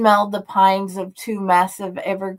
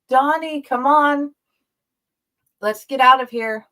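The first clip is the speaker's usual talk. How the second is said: higher, louder urging; urgent plea; 6 semitones higher, 6 dB louder than usual. A narrator's reading. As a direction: hurry him away from danger. Urging his friend to leave.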